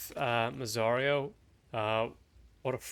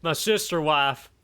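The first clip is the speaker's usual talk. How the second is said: drawled cartoon redneck accent, a bit higher; 5 semitones higher than usual. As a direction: ham up a hick Southern accent. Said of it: "your redneck sounds really fucking good".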